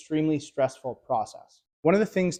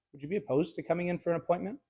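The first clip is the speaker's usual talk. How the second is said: softer, fast and laid back; nonchalant; 3 semitones higher, 7 dB quieter, faster than usual. Shown as a demonstration. Salesman on the phone asking a client casually, nonchalant. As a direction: toss it off casually, no pressure. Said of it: "the other one is nonchalant".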